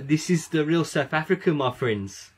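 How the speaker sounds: put-on South African advert catchphrase accent. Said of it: "try and do the South African accent".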